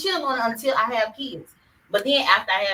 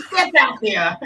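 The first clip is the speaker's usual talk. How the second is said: hype cheer; 3 semitones higher, 7 dB louder than usual. Real, not acted. Hyping friend to stand up.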